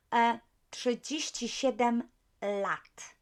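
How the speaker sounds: trzydzieści siedem lat said slowly in careful Polish; model answer. Shown as a demonstration. Teacher slowly modelling the answer for students. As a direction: say each Polish word slowly. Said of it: "How about he is thirty-seven?".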